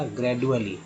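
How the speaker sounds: ग्रेजुअली said as "gred-u-ali"; hard d in the middle of ग्रेजुअली; d pronunciation. Shown as a demonstration. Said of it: "डी को अगर ड पढ़ें".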